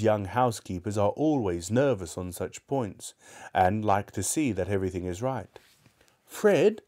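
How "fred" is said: much higher, louder call of the name; calling Fred. Acted. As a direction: peek in and call out. Scrooge calls his nephew.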